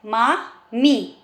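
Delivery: मामी very slow, the ई held long; stretched vowels. Shown as a demonstration. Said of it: "ई की sound आ रही है".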